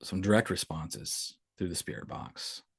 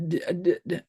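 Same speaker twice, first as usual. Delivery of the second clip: imitating a scared toddler; 11 semitones higher, 4 dB louder than usual. Scared toddler stammering retold.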